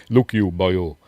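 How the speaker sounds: put-on a half-hearted stab at a Welsh accent; a weak, joking Welsh accent. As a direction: try a Welsh lilt, not quite managing it. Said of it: "I should be doing this in a Welsh accent".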